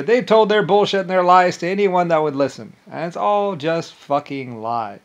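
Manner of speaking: real anger, voice climbing; angry rant. Real, not acted. Angry rant about lies.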